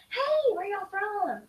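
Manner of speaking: high, slow friendly call; mock greeting. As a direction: stretch out a cheery hey. Soccer player greeting, voiced.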